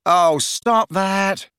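high, drawn-out plea; begging. A narrator's reading. Ron begs Hermione to stop, pleading. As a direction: plead as if it pains you. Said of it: "Ron begged her".

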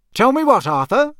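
dangerous voice. A narrator's reading. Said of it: "in a dangerous sort of voice".

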